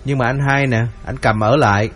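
lightly voiced son-in-law, mild wounded indignation; a touch of a hurt man defending himself; indignant younger son-in-law. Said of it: "cậu bất bình lắm".

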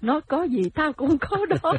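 high, loud retort through laughter; hammed-up indignant wife, half laughing; mock scolding wife. A wife cursing her husband's mistress, mock scolding. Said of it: "Có bà còn chửi".

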